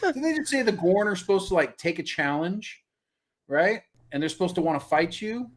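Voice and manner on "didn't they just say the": high-pitched, laughing through the words. Real, not acted. Asking co-host about the Gorn, laughing. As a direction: try to talk while cracking up. Breaking up after the screams.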